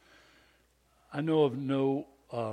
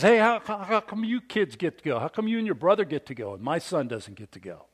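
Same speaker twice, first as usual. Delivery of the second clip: attack dog; 4 semitones higher, 4 dB louder than usual. Retold or imitated. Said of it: "was an attack dog".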